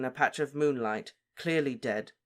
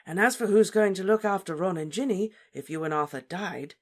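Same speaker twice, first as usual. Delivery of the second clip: slight smile; 6 semitones higher, 5 dB louder than usual. Acted. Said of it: "smiling slightly".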